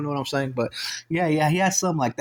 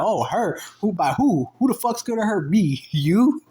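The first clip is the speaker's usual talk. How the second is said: high, indignant challenge; riled-up brother; 6 semitones higher, 3 dB louder, slower than usual. Retold or imitated. Brother squaring up to the man who threatened him, riled-up. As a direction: fire back incredulous questions, pitched high. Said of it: "He starts getting mad".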